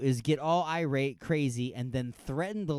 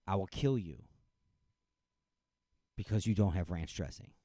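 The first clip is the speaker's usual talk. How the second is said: menacing customer; 8 semitones lower, 4 dB quieter than usual. Retold or imitated. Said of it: "This guy threatens the life".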